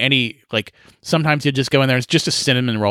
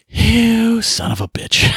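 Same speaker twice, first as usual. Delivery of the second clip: slow, higher, drawn-out mocking curse; 8 semitones higher, much slower than usual. To the grumpy grandfather, a slow drawn-out curse. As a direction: stretch the insult out, pitched up and slow.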